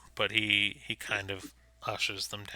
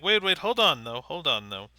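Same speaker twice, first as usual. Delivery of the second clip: urgent pleading; 3 semitones higher, 5 dB louder than usual. Acted. Innkeeper haggling, in character.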